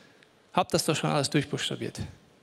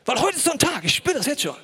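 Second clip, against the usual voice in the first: much higher, hammed-up voice of Josef; mock him foreseeing his bad day; mock Josef musing; 9 semitones higher than usual. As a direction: Josef mockingly sure of his bad luck. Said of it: "hat sich überlegt".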